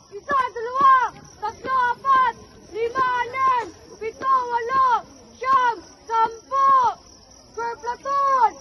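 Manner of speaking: loud barked count-off; drill count. Acted. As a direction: shout each count like a drill call.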